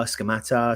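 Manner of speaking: "Scamata" with a "t" in place of the hard "c"; variant pronunciation. Shown as a demonstration. Host running through name variants, "Scamata" said with a "t" sound. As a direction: say "Scamata" as ska-MA-ta. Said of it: "however you want to pronounce his name".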